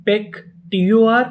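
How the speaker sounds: slow, letter by letter; पेक, टीओआर spelled out slowly; slow sounding out. Shown as a demonstration. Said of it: "पीईसी".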